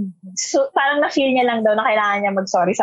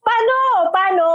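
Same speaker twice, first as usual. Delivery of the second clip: baffled; 9 semitones higher than usual. Retold or imitated. People retold wondering how.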